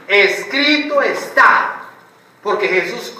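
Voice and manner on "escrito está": "Escrito está" said slowly, each word weighted; slow firm declaration. Shown as a demonstration. Preacher shows what to answer temptation with, slow and firm. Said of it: "qué tiene que decir".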